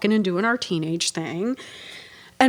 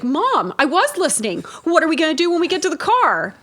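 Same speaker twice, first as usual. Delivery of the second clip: mocking teen repeat; 6 semitones higher than usual.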